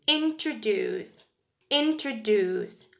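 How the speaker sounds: "Introduce" said slowly, weight on the last syllable; slow demo, stress landing on "-duce"; stress on the end. Shown as a demonstration. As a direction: draw it out as introDUCE. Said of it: "pronounced with a stress at the end".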